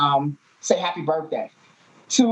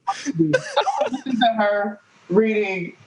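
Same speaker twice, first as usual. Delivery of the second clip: laughing; 3 semitones higher than usual. Real, not acted. Host laughing at the clip.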